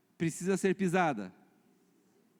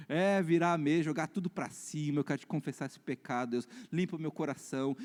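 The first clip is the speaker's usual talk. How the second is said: acted confession prayer. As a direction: pray it humbly, as if owning up to God. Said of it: "a gente começa a falar assim". (oração de confissão, contida)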